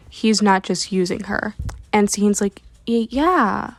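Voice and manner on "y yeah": hesitant, stammered yeah with a higher pitch bump; stall, then give a doubtful yes; unconvincing. Retold or imitated. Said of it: "which is really reassuring".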